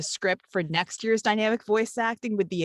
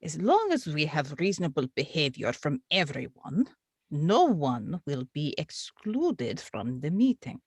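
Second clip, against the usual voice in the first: lightly put-on Russian accent as the clerk; a deliberately bad Russian accent, only hinted at; 3 semitones lower than usual. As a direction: clerk addressing the chairman in a faint mock Russian accent. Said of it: "bad Russian accents".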